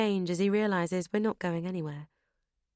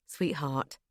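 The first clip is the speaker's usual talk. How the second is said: strangled; 4 semitones lower than usual. Acted. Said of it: "George sounds strangled".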